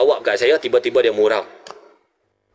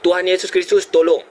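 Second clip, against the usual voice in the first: re-enacted plea, pitched higher; calling for help; 6 semitones higher than usual. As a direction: retell a cry for rescue, raised voice. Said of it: "Saya berseru".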